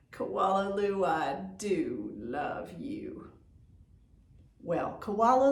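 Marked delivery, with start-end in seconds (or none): 0.1-3.3 imagined tender mama line; hopeful refrain. Acted. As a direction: say it the way she dreams of hearing it. Koala imagines mama saying it.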